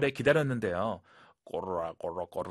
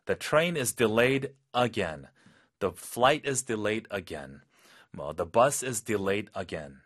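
annoyed; much slower than usual. Acted. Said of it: "또 기차가 지연이 됐네".

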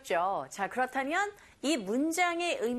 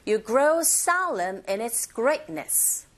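"grow solemn" and "greatness" stressed, "in its" linked; slow model sentence, punching "grow", gliding over "in its"; stressed content words; much slower than usual. Shown as a demonstration. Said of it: "이렇게 발음 연습하시면 됩니다". ("grow solemn", "greatness"에 강세, "in its"는 가볍게 연음)

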